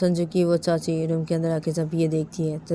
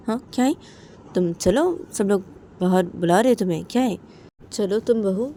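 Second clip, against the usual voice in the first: higher-pitched aunt, urging; coaxing aunt; 4 semitones higher, 4 dB louder than usual. Acted. Aunt calls daughter-in-law to join everyone outside, insistent coaxing. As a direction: coax her along insistently.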